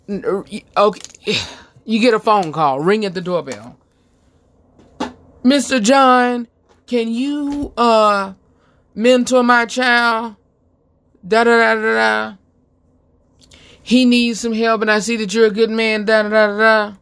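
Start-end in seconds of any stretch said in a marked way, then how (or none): 5.4-16.9 pleading parent. Retold or imitated. Voices a parent asking for help.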